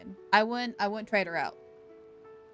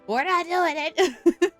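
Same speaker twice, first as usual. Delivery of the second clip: loud, high, drawn-out refusal; laughing refusal; 7 semitones higher, 6 dB louder, much slower than usual. Real, not acted. Streamer refuses chat's snake barbecue, laughing refusal. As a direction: insist slowly as laughter breaks in.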